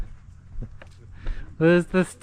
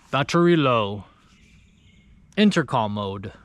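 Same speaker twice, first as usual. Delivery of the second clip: lightly imitated German robot voice, a bit lower; deep German accent; 5 semitones lower than usual. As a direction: mimic the intercom's curt German accent, low. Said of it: "it's in, like, a deep German accent".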